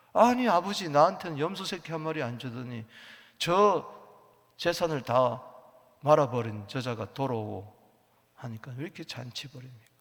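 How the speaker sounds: loud resentful complaint to the father; angry elder son. Acted. Elder son angrily confronts his father at the feast, loud. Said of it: "막 성을 내면 화를 내는 거예요".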